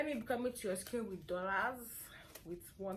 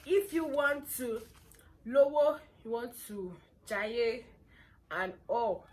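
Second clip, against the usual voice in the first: loud hyped; 4 semitones higher, 10 dB louder than usual. Real, not acted. Loud hyped chant of song.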